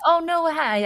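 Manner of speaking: startled yelp. Retold or imitated. Retelling friend's startled reaction.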